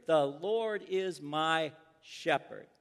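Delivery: slow, separated words in "The Lord is my shepherd". Acted. Pastor counting words on a boy's fingers, "The Lord is my shepherd" word by word. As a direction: give every word of "The Lord is my shepherd" its own beat. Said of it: "each of those words represent a finger".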